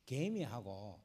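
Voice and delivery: normal talking voice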